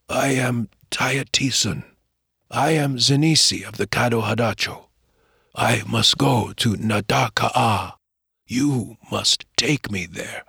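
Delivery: a hint of an old man, slow and pained; lightly voiced wounded old Caddo man. Dying old man tells the boy of his protector, lightly voiced, slow. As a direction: play the dying elder gently, not much change.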